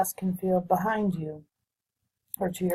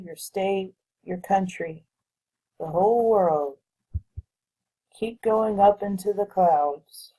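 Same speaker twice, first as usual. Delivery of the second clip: measured meditation guide with long pauses between phrases; guided visualization. Real, not acted. Guiding listeners to float above their future timeline, guided visualization voice. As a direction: lead them through it unhurriedly, pausing to let them picture it.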